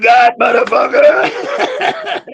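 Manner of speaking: high, slow, laughing jeer; laughing taunt. Retold or imitated. Taunting an opponent who asks to be hit harder, laughing. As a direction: stretch the insult out through a laugh.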